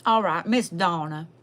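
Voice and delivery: Lurleen character voice, Southern twang; heavy Southern twang accent. Acted. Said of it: "I can't with the twang either".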